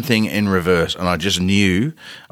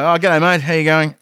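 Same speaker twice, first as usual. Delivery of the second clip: acted cheery greeting; 8 semitones higher than usual. Acted greeting back to the friend.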